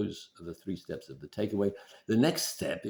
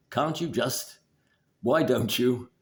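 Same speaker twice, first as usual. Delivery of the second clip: higher, louder scolding nag; nagging critical parent; 4 semitones higher, 5 dB louder, slower than usual. Retold or imitated. Wife nagging her partner like a critical parent, higher and louder. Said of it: "your critical parent".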